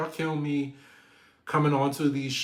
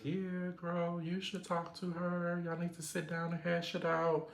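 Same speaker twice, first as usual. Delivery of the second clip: imitating Kay; 5 semitones higher, 6 dB quieter than usual. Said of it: "Kay talking to her like".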